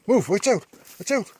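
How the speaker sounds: high, loud shout to animals; sharp high shout. Real, not acted. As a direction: yell it out to shoo them off. Shooing animals, sharp high calls.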